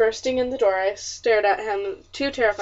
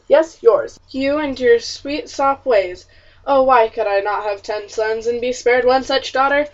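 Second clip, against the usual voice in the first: loud, bitter father's tirade, slow on "sweet sop ways"; angry scolding; 6 dB louder than usual. Acted. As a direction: scold the daughter at full volume. Father scolds daughter angrily.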